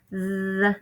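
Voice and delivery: th with tongue between teeth; tongue sticking out. Shown as a demonstration. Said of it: "stick your tongue out at your teacher".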